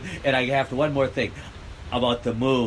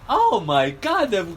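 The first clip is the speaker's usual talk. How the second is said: mock gleeful Gates; 8 semitones higher than usual. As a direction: imitate someone thrilled by disaster. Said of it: "It's like going".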